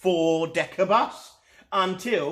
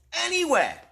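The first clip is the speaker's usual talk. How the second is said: cheerful driver; 14 semitones higher, 4 dB louder than usual. A narrator's reading. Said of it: "said the driver".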